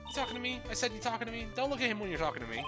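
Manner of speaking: high, loud mock tough guy; bratty dummy picking fight; tough puppet voice. Puppet confronts player.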